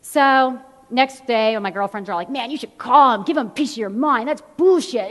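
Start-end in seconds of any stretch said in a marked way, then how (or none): 2.3-5.1 egging-on friends. Retold or imitated. Girlfriends urging her to call.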